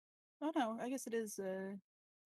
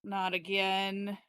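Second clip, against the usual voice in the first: weary; 6 dB louder, much slower than usual. Acted. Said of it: "stroking my brow, like".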